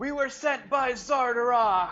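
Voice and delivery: yelling. A player's character calls out to the Dwergar, shouting. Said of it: "So I'm gonna shout to the Dwergar".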